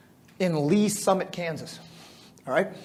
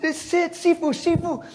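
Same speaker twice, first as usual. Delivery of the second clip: excited boast; 11 semitones higher than usual. Retold or imitated. Boasting to teacher after win.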